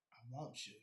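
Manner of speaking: breathy longing whisper to the sneaker. Acted. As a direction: whisper it like a lover's confession, slow.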